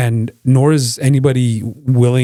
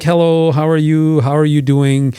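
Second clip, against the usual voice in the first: overly polite Canadian greeting; 4 semitones higher, slower than usual. Retold or imitated. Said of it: "we're like".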